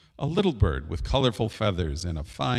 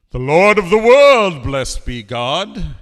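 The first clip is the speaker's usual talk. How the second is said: loud, high, ringing proclamation, then slower; proclaiming king; 7 semitones higher, 11 dB louder, slower than usual. Acted. King answers hoopoe's riddle, proclaiming loudly.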